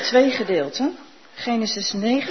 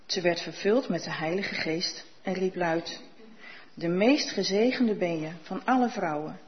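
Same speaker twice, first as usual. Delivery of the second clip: measured, even Bible reading for the congregation; calm liturgical reading; scripture reading. Acted. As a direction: read the Genesis passage steadily, as scripture.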